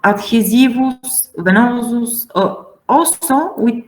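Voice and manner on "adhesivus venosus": "Adhesivus, venosus" with stress on SI and NO; second-last syllable stressed. Shown as a demonstration. Teacher listing suffix examples, second-last syllable stressed. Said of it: "the accent is on second syllable".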